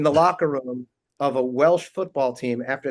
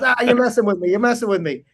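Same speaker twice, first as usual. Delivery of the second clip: louder, higher disbelieving laugh; laughing fan; 7 semitones higher, 4 dB louder than usual. Retold or imitated. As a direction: brush it off, chuckling. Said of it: "he goes".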